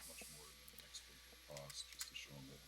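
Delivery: trailing off too quietly; fading out. Real, not acted. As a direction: voice dropping away. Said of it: "I can't hear".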